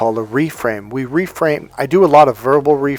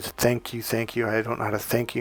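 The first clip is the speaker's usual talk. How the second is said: put-on sobbing voice, quieter; 2 semitones lower, 12 dB quieter than usual. Retelling a phone call from a crying mother, imitating someone sobbing. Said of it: "she just sobbingly said".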